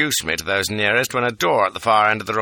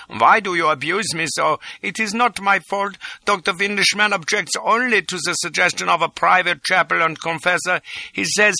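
1 near tears; 8 semitones higher than usual. A narrator's reading. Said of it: "on the verge of tears".

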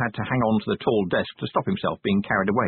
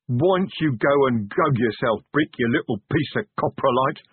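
muttering troll; 4 semitones higher than usual. A narrator's reading. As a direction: grumble an insult as a troll. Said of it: "the troll muttered".

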